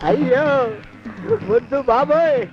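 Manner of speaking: comic wails of fear while being beaten; hammed-up yelps, ayyo after ayyo; mock cries of pain.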